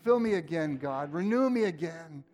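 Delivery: hushed worship prayer. Acted. Leads a prayer over music.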